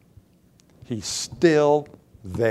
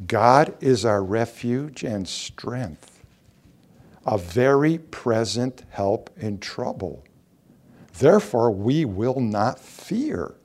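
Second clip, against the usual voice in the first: calm scripture reading; 3 semitones lower, slower than usual. Acted. Reads comforting psalm slowly.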